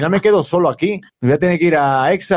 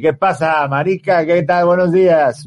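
lightly imitating a Colombian buddy; coastal colombian accent; 2 semitones higher, slower than usual. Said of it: "o dice". (acento costeño colombiano)

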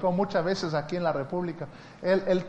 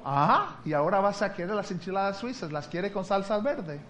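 a touch of surprise, higher; surprised waitress; 3 semitones higher than usual. Retold or imitated. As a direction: ask with mild surprise. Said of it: "bien sorprendida". (mesera un poco sorprendida)

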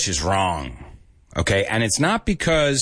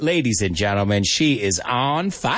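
hype announcer. Pretend. Host announcing the listener who got it, big announcer hype. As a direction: stretch "fire" out like an arena announcer.

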